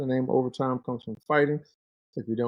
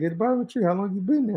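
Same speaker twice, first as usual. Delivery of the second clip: buddy's voice; 9 semitones higher, faster than usual. Retold or imitated. Buddy questioning in story.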